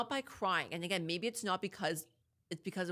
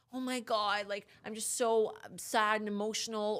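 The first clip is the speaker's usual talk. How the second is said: mock gushing sister; 4 semitones higher, 3 dB louder than usual. Mocking crying sisters from social media videos, lightly hammed-up gushing. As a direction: poke fun at the overly emotional sister. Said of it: "or, like".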